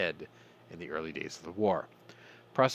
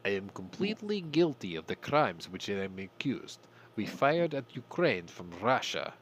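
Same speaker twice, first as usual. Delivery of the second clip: put-on Russian accent. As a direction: read the soldier's words in a hinted Russian accent. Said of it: "I'm gonna try to do this in their accent".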